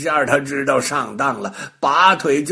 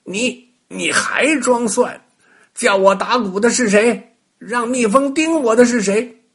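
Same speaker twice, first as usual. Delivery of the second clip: louder, stammering furious witch; angry witch; 8 semitones higher, 5 dB louder than usual. A narrator's reading. Stung witch accuses the rabbit, loud and angry. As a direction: hurl the accusations.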